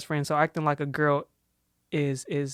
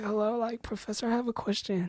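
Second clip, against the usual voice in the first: airy, breathy, soft, pitched-up voice; 6 semitones higher, 7 dB quieter than usual. Mimicking how a woman spoke to the professor; imitating breathy talking.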